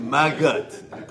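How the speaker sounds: Magut, ending in a hard T; Magut, the way a Russian says Magnum; Russian-accent Magnum. Shown as a demonstration. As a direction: say Magut with a clipped final T. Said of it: "Put a T on the end of that".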